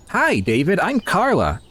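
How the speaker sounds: high, bright neighbor voice; neighbor lady voice. Pretend. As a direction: voice the friendly neighbor.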